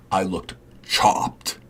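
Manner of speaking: slow breathy whisper; a slow secret whisper; whispered aside. Real, not acted. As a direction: confess it under your breath. Whispered confession about looking bad.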